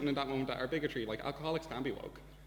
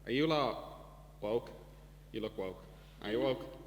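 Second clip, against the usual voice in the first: put-on slow, drawn-out Northern Irish drunk asking; a drunk Northern Irish man on a train, slow and probing; slower than usual. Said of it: "he was like".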